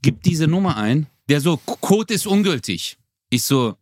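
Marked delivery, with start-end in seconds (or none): 1.6-3.0 retold terse annoyance, slow and higher; mildly annoyed mock clerk, drawn out; pissed-off clerk. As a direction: imitate an irritated post clerk. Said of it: "der ist schon voll angepisst".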